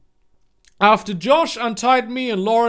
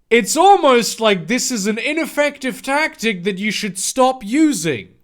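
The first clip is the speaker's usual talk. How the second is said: sarcastic aside; 2 semitones higher, 3 dB louder than usual. Real, not acted. Sarcastic commentary on the fic.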